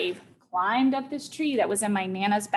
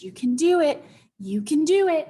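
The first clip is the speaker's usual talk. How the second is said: slightly raised, cheering-on voice; encouraging; 4 semitones higher, 4 dB louder than usual. Retold or imitated. Mom encourages child to climb down, encouraging. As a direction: urge them on, lightly imitated. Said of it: "gives me some encouragement".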